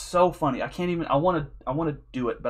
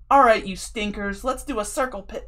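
silly frontman; 7 semitones higher, 5 dB louder than usual. Retold or imitated. Singer teasing the crowd into a pit, goofy loud call. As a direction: ham it up like a playful metal singer. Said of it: "he was being so silly on purpose".

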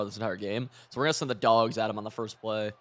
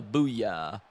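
deep booyah; 4 semitones lower than usual. Retold or imitated. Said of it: "like a real, like, deep voice".

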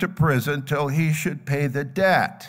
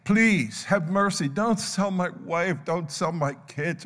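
begging; 3 semitones higher than usual. Acted. Debtor begs master not to sell his family, pleading. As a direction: plead for mercy, pitched up. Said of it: "And he begged".

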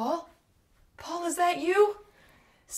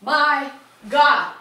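gagging; 3 dB louder, slower than usual. Acted. Gagging at bathroom stench.

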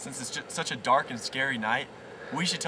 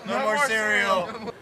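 witch voice; 6 semitones higher, 4 dB louder, slower than usual. Acted. Silly echo in witch voice.

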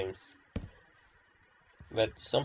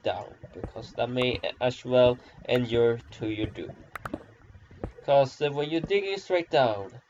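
mock-solemn lecture, a little raised; ridiculous speech; 2 semitones higher than usual. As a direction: deliver a silly, grandiose warning. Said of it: "such a ridiculous, uh, way right now".

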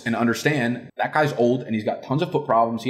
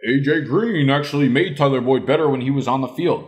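lightly mocking quote of a critic; mildly put-on naysayer voice; mocking smart aleck; 2 semitones higher than usual. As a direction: parrot a know-it-all commenter with a touch of mockery. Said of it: "y'all are gonna get cute".

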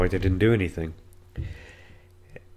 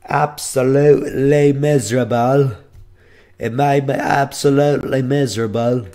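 emphatic misery; 4 semitones higher, 4 dB louder than usual. Real, not acted. Venting about being sick on edibles.

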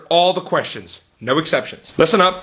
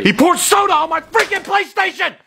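whiny tattling little sibling; 12 semitones higher, 3 dB louder than usual. Acted. Kid complains to mom.

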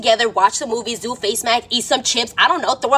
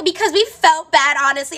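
higher, slow, drawn-out mock reply; imitated girls' excuse; 5 semitones higher than usual. Friends explaining to the guys why they invited her, mock pitying. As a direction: stretch it out as mimicked girls.

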